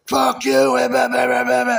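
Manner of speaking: high-pitched mimicked tirade; mocking rant. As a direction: imitate her screeching back in nonsense syllables. Mimicking her ranting back at him.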